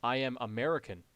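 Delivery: mock generic American accent, deliberately spoken. Shown as a demonstration. Streamer shows chat what generic American sounds like, mock American accent. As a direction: caricature an American introducing himself. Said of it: "generic American accent is like".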